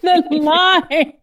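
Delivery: high, giddy exclamation on the edge of laughter; delighted disbelief. Real, not acted. Host reacting to Riot's ridiculous line, giddy delight.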